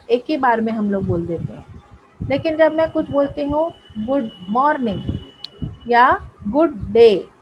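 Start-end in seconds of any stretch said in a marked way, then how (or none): 4.0-5.0 गुड मॉर्निंग split by small breaks; teacher separating the beats of गुड मॉर्निंग; audible syllable break. Shown as a demonstration. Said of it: "इसमें आपको break महसूस हो रहा है". 6.5-7.3 गुड डे in two slow, separate beats; slow teacher's demo of गुड डे in parts; audible break. Shown as a demonstration. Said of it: "इसमें आपको break महसूस हो रहा है".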